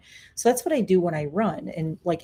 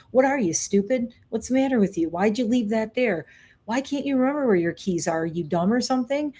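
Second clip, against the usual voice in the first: lightly acted nagging critic, pitched higher; mean inner voice; 4 semitones higher than usual. Inner voice berating her for forgetting something in the kitchen, mean and nagging. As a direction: scold like a nagging voice in the head. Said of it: "the voice behind me is going".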